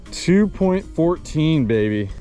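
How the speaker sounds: slow, drawn-out triumphant call. Real, not acted. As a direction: stretch it out like a win. Reading the scale, triumphant.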